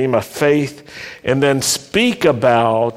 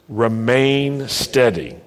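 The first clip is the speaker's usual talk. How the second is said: slow, for repeating back; 2 semitones lower, slower than usual. Shown as a demonstration. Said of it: "You say that".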